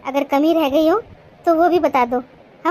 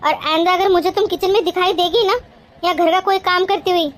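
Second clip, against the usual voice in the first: mildly cross, insistent telling-off; scolding; 2 semitones higher than usual. Acted. Bhabhi orders Gudiya back to her studies, mildly scolding. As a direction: lay down the rule firmly, with mild anger. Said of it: "इसलिए डांट मार रही है".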